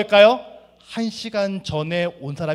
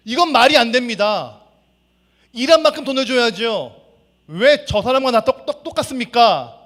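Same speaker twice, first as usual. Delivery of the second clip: raised, higher protesting worker's voice; angry complaint; 5 semitones higher, 6 dB louder than usual. Acted. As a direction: complain hotly about the unfair pay. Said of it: "화가 났습니다".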